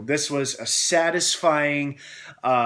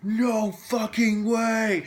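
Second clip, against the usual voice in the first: excited disbelief; 8 semitones higher, much slower than usual. Retold or imitated. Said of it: "Like, loudly in the theater".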